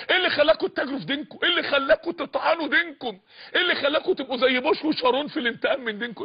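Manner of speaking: acted scolding, pressing for an answer; indignant reproach. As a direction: fire the questions off in rebuke.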